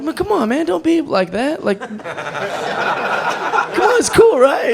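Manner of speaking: a hint of a whiny child pleading high; pleading with the owner, lightly childish whine; childish whining. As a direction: plead like a kid caught out. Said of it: "like a child".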